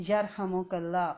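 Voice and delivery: یرحمک اللہ spelled out slowly, every syllable distinct; slow clear recitation. Shown as a demonstration. Teacher models the reply to a sneeze slowly. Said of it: "اونچی آواز میں".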